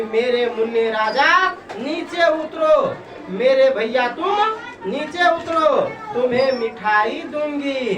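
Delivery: a hint of a mother sweet-talking her son down; lightly coaxing mother. Teacher voicing a mother coaxing her son from the tree, gently coaxing. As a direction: coax him gently, a touch of tenderness. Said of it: "दुलार से, प्यार से बोलती कि".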